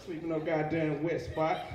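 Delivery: low, slow line through laughter; laughing. Acted. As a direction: drag it out, laughing. Laughing mock refusal.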